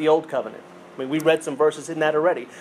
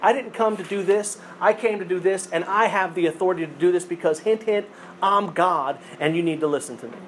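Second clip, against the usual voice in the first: Jesus asserting authority. Retold or imitated. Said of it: "And he's like".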